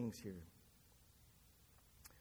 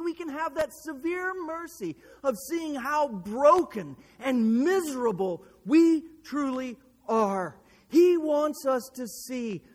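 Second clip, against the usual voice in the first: forceful, urgent sermon delivery; impassioned preaching; 7 semitones higher, 10 dB louder than usual. Real, not acted.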